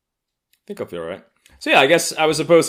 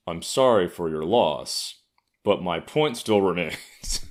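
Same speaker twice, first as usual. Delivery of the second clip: mock condolence; slower than usual. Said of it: "was just like".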